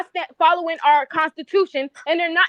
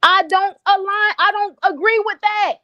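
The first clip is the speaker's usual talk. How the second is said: raised, heated reply; loud sharp voice; 5 semitones higher than usual. Real, not acted. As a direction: push back loudly. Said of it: "why are you yelling at me".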